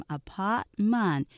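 아파트먼트 run together in three syllables; linked apartment. Shown as a demonstration. Teacher linking 아파트먼트 for students. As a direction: join 아파트먼트 smoothly. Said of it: "연결해서".

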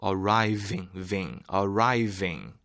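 "Arriving" with a true r, isolating "ving" with a v; English r and v. Shown as a demonstration. Teacher modelling for learners, English r and v in "Arriving". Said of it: "Arriving 아닙니다, 여러분".

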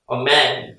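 "a man" with a wide, open A in man; wide-open vowel. Shown as a demonstration. Teacher showing the singular, "a man" with wide-open vowel. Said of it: "하고 입을".

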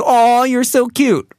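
put-on high, slow baby cooing. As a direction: coo over a cute baby. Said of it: "sounds like that A W".

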